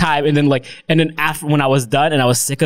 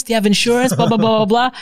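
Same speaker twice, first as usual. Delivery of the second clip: higher, eager sales pitch; mock salesperson; 8 semitones higher than usual. Sales staff pushing insurance, eager mock pitch. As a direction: repeat the pitch with the same eagerness.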